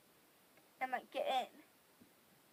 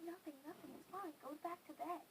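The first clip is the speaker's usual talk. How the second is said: hushed dismissal; 3 semitones higher, 10 dB quieter than usual. Retold or imitated. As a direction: quietly shoo someone back to bed. Sister hushing her, retold.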